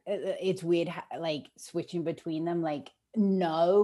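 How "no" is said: "no" in an Australian accent, a little louder. Shown as a demonstration. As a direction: say "no" with an Australian vowel. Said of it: "the word that sounded most Australian".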